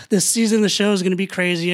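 excited. Real, not acted. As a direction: burst into fast, loud excitement. Sudden hype for new season.

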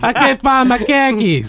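half-laughing mock Boston accent on "khakis", like car keys; a laughing, lightly put-on Boston voice; a Boston guy who lost his car keys, said as "khakis". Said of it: "That's how they say khakis".

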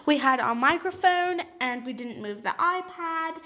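put-on British accent, playful; light mock-British accent. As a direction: answer as a British interviewee. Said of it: "I'm gonna do a British accent".

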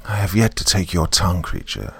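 put-on an old river god, distant as an echo; menacing giant snake, a hint of echo; ancient serpent voice. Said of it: "that sounded low and ancient".

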